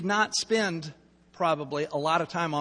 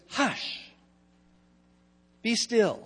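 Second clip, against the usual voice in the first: calm command; 2 semitones higher, 3 dB quieter, slower than usual. Retold or imitated. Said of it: "essentially he just says".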